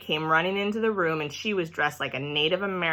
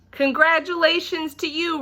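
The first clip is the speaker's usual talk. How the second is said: much higher, beaming; real happy; 10 semitones higher than usual. A narrator's reading. Principal congratulating Room One, high and beaming. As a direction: announce it like grand news. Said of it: "he said real happy".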